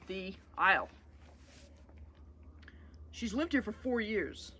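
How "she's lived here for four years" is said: calm. Acted. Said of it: "Jack said calmly".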